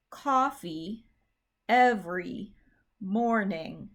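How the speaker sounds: COFFEE, EVERY, MORNING each set apart, first syllable stressed; word by word. Shown as a demonstration. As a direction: list COFFEE EVERY MORNING with pauses between. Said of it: "experiment with saying the words".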